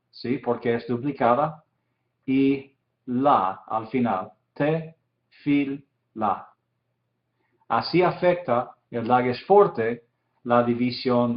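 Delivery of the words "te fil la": "te fil la" said as three separate syllables with pauses between them. Shown as a demonstration. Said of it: "se divide así". ("te fil la" dividido en sílabas con pausas)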